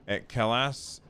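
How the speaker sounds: Calais said as "ka-lass", rising, unsure; unsure pronunciation. Shown as a demonstration. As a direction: try Calais as "ka-lass", asking. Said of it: "I don't know how to say that".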